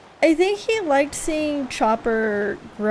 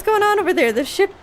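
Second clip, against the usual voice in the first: quick, higher, louder crewman caught off guard; alarmed sailor; 8 semitones higher, 3 dB louder than usual. Acted. Crewman alarmed as the ship suddenly stops, louder. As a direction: sound the alarm as the ship halts.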